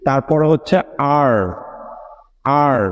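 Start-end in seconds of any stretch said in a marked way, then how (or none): 1.2-2.8 "আর" with the tongue curled back; rounded English R. Shown as a demonstration. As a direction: say "আর" with the tongue folded and rounded inside. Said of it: "জিহ্বাটা ভিতরে fold হয়ে round হয়ে থাকে".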